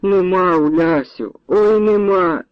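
high, crying "ой, нема"; wailing. A narrator's reading. The women wail to Ulyana that the girl is gone. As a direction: break into a lament again. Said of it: "знову заголосили обидві".

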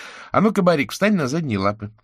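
put-on high, playful child's order; a girl ordering her dog to stand up; girl commanding. A narrator's reading. Girl orders her dog to stand, high and playful.

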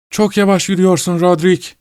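high, eerie taunt; taunting sleepwalker. Acted. Wife mocking her husband in a strange high voice. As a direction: tease him from far ahead.

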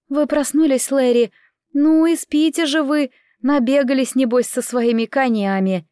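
a hint of a fussing, familiar servant; lightly played maid teasing a late sleeper; chatty maid, gently chiding. Narrator voices the chatty maid.

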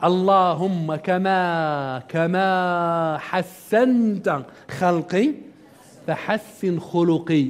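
very slow, drawn-out supplication; slow prayer. Acted. Lecturer recites the mirror prayer to students, very slowly. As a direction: savour each word of the prayer. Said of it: "تتساءل وتقول ماذا".

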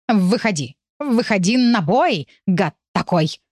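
slow yowled challenge; howling challenge. Acted. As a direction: yowl it like a tomcat. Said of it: "завывал Чёрный".

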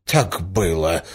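delighted. A narrator's reading. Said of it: "закричал князь в восторге".

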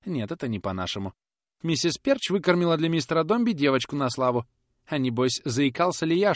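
gossiping up to his master; fawning Perch. Acted. Perch's long speech. (Перч угодливо жалуется хозяину, повыше)

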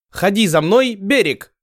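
very high, slow broken-Russian call; beckoning foreign call. Acted. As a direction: Ottoman negotiator beckoning them ashore, broken accent. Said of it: "коверкая слова".

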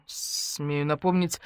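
polite. Acted. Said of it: "вежливо ответил Матвей".

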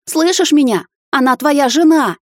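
mother insists at her son, shouting. A narrator's reading. (громкий крик, медленнее)

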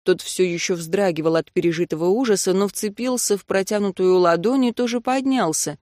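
ordinary delivery, nothing marked

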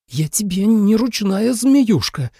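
hissing snake. A narrator's reading. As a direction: hiss it like an angry snake. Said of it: "прошипела Су Илань".

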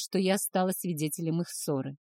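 ordinary delivery, nothing marked

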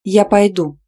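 loud sharp snap; loud defiant snap; snapped. Acted. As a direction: bark it back defiantly. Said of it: "рявкнула".

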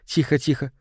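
gentle, soothing hush; composed, reassuring shushing; calm. A narrator's reading. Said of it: "спокойно объяснила Соланж".

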